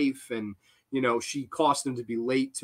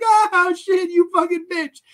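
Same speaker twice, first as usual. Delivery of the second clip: high, loud imitation of panicked yelling; mock freak-out; 14 semitones higher, 6 dB louder than usual. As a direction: yell like a hammed-up victim in pain. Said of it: "he's freaking out".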